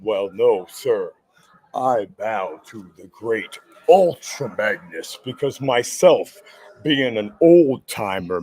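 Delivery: put-on slow, low grand old-timer delivery; bow with slow ceremony; lightly voiced old-timer, slow and low. Old-timer Hip Optimus persona bows.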